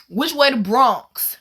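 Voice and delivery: slow Bronx New York voice; imitating a Bronx local asking directions; Bronx accent. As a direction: ask it like a guy from the Bronx. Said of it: "I could tell by this man's accent".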